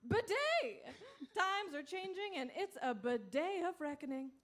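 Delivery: upbeat infomercial pitch; ad read. Acted. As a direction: sell the product with a grin.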